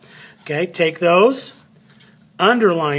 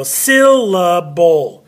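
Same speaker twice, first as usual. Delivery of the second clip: syllable, first syllable louder and higher; stress on first syllable; 5 dB louder, much slower than usual. Shown as a demonstration. Teacher showing students where the accent falls, first syllable stressed. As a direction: hit the SYL of syllable, then drop. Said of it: "say a little bit louder and a little bit higher".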